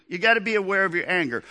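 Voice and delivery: fast, urgent repeat of the lesson; hurried preacher aside; quick restatement. Shown as a demonstration. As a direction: rush it out as a follow-up. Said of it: "Here's the first teaching moment".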